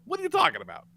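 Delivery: ordinary talk, nothing marked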